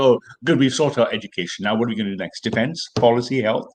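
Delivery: imitating a breezy brush-off; mock dismissive. Mimicking the other speaker moving on from education, mock dismissive. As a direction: tick off topics as if already solved. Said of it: "just had a hand-waving dismissal".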